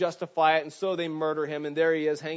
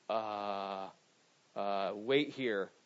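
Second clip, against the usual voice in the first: slow, low, halting stammer, a hint of a dumbfounded priest; stall, lost for words; stunned priest; 6 semitones lower, 5 dB quieter, much slower than usual. Chief priest stammering at the guards' news, slow and low.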